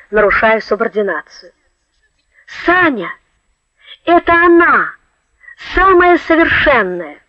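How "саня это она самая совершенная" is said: high, eager cry; excited. Acted. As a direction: burst out with joy. Navigator's excited outburst.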